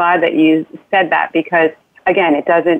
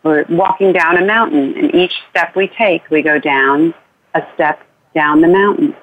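guided bedtime journey; 2 semitones lower than usual. Shown as a demonstration. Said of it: "And then you say".

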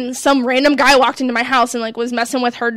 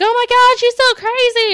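much higher exaggerated gushing voice; squealing, higher "oh my God" impression; mocking gossipy churchgoers; 11 semitones higher than usual. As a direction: ham up the shocked church friends. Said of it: "And then they're like".

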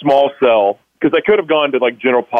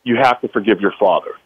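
slightly lower, measured, restrained delivery; voice of God; 3 semitones lower than usual. Retold or imitated. God answering the man's outburst, calm retold command. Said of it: "God said".

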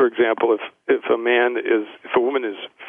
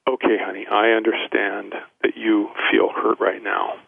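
calm, soothing tone. Shown as a demonstration. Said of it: "move our voices down a notch and go".

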